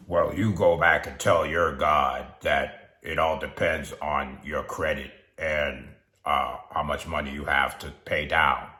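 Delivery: a hint of a car salesman setting terms; dismissive salesperson. Salesperson answering a hopeful buyer, lightly mocking. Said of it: "The salesperson will probably look at you and say".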